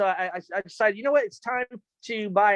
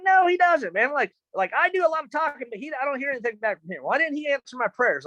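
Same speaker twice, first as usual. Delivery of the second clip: put-on whiny kid; 5 semitones higher than usual. Child self complaining to mom.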